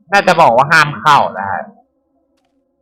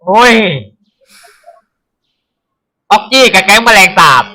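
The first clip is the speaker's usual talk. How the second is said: excited; 5 semitones higher, 5 dB louder than usual. Real, not acted. Excited recognition of cartoon.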